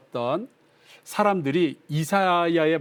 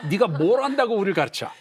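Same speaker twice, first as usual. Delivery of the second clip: higher-pitched mock drunkard, challenging; drunken heckling; 5 semitones higher than usual. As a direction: play a drunk talking back. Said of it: "술 취한 사람들이 술에 취해가지고 하는 얘기예요".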